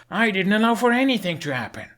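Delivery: defensive shout. A narrator's reading. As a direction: cut her off, defensive. Hiccup cuts in defending himself.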